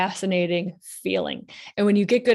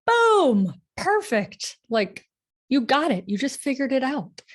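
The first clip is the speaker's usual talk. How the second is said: excited praise; 6 semitones higher than usual. Real, not acted. Coach cheering a viewer's breakthrough, thrilled.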